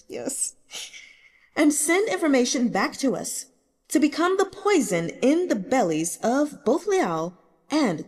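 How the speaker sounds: a hint of a young ruler pleading his case; emperor's voice. Emperor asks Gu to infiltrate.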